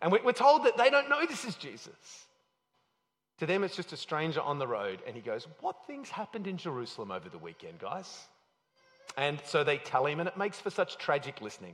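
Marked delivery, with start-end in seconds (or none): 5.6-8.3 play-acted, guileless, innocent tone with swooping pitch. Retelling a scripture scene as Jesus answers with a counter question: Jesus asking innocently.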